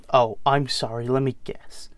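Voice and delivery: sarcastic American son cutting in; hushed American accent, bitterly mocking. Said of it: "James will be in an, an American accent".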